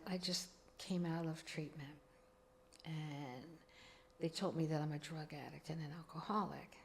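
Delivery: soft, whispered admission through tears; tearful confession. Retold or imitated. Mother telling her daughter about treatment, tearful whisper. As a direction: confess it quietly, close to crying. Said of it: "And I'm crying".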